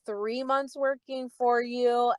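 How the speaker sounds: high, drawn-out singsong goodbye; mock-sweet farewell. Fired server calling through the boss's office door, mock-sweet farewell. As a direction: chirp it sweetly to needle him.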